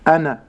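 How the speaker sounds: أنا with an a after the n; voweled nun. Shown as a demonstration. Sheikh showing the error to avoid, a voweled nun in أنا. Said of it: "وعدم تحريكها".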